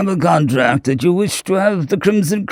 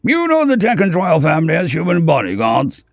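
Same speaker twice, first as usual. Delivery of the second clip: angry and afraid; 6 semitones higher than usual. A narrator's reading. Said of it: "he practically shouted, a mixture of anger and fear".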